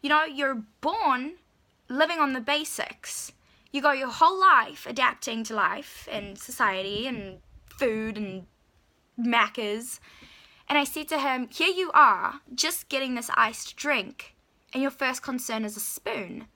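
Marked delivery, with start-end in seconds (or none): 0.0-10.0 mildly worked-up reproach; upset scolding. Retold or imitated. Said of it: "kinda got so upset with him". 11.5-16.5 retold reproach, pitched up; exasperated lecture, acted out; upset scolding. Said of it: "kinda got so upset with him".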